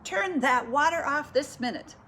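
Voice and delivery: scolding shout. A narrator's reading. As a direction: loudly order the culprits to obey. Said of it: "shouted Missus Rogers".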